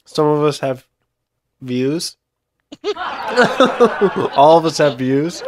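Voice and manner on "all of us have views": chuckling through the words; amused, laughing as he corrects himself. Real, not acted.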